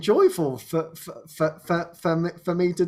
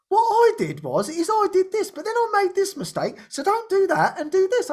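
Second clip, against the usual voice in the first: mimicking advice giver; 10 semitones higher than usual. Someone lecturing him with advice.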